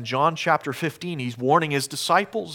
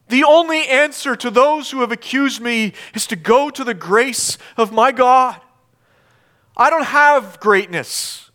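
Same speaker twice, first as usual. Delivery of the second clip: raised, higher preacher's voice; forceful preaching; 10 semitones higher, 6 dB louder than usual. Acted. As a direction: preach it with rising indignation.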